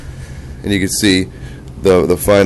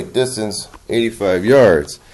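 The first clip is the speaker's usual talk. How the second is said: lightly imitating a robotic readout; hint of a robot announcer voice; slower than usual. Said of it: "a little robotic voice say".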